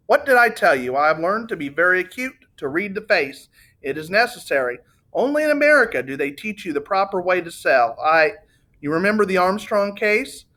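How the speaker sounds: a lightly voiced gushing Italian; voluble Italian salesman. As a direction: gush out memories like a proud salesman.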